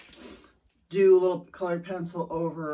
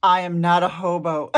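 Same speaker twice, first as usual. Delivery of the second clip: laughing quote; 8 dB louder than usual. Retold or imitated. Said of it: "my most favorite lines in the book".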